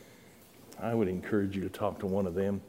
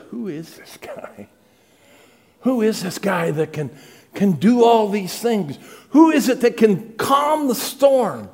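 awed disciples building to a cry; 10 semitones higher, 9 dB louder than usual. Retold or imitated. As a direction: build from a hushed question to an astonished shout. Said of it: "And they said".

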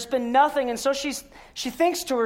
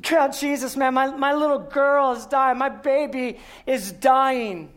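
desperate father. Retold or imitated. Pastor acts desperate father on ground.

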